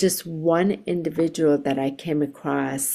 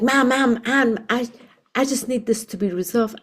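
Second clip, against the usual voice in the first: flustered pleading; 6 semitones higher than usual. Retold or imitated. Flustered supervisor begging the reverend to just resolve it. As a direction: repeat ma'am urgently, then hurry on.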